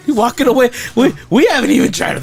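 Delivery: high, loud pet-calling voice. Real, not acted. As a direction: call the dogs back, high. Calling to walking-away dogs.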